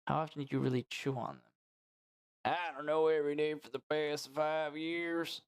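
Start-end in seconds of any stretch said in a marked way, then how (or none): 2.5-5.4 lightly voiced patient character; patient Ernie. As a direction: answer the doctor as the patient.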